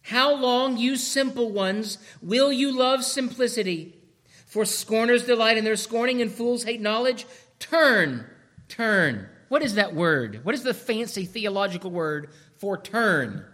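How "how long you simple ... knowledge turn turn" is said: higher, louder preacher call; pleading, raised street-preacher call; wisdom calling out. Acted. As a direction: cry out to the simple ones to turn. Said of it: "the call always begins with what".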